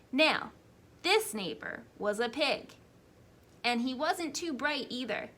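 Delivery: a hint of a sly wolf pleading his case; wolf narrator. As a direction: play a self-justifying wolf telling his side.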